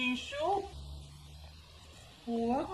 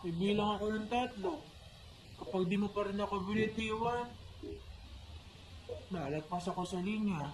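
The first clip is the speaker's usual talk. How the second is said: put-on quiet drunk threat; 3 semitones lower, 8 dB quieter than usual.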